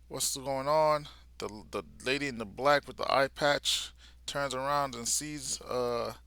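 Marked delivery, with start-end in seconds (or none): 0.1-1.1 louder, higher startled question; surprised. Retold or imitated. Yuru arriving at the scene, louder surprised question. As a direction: blurt it out in surprise.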